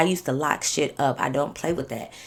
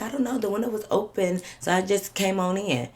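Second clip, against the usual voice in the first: higher-pitched shrug-it-off excuse; mimicked innocence; 4 semitones higher than usual. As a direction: imitate her playing dumb, pitched up. Imitating cousin's excuse about window.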